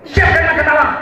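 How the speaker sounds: husband barking for his dinner; bossy husband order. Retold or imitated. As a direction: order the wife around.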